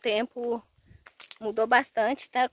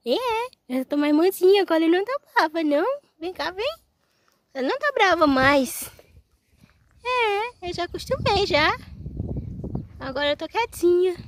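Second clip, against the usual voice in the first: high, louder cute little-sheep voice; voicing the sheep; 9 semitones higher, 4 dB louder than usual. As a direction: talk as the tame sheep, sweet and high. (voz aguda e fofa da ovelhinha)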